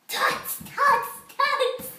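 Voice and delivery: loud, high teasing tuts; tut-tut back like cheeky monkeys; mocking monkey tuts. Monkeys mock the furious peddler, loud high teasing tuts. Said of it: "at him and said".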